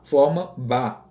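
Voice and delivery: slow, "ba" said clearly as one syllable; sounding out a syllable. Shown as a demonstration. Teacher building a syllable for the class, slowly. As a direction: slowly join B and A into "ba". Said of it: "a letra B com a letra A".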